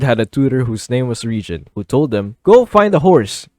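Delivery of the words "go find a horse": loud, high, slow order; mock command. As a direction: call it out like a bossy tutor. Tutor's order acted out.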